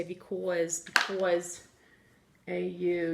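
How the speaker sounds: because with a light New York aw; because as pi-kawz, lightly New York; New York accent. Shown as a demonstration. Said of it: "if you're from New York, you say".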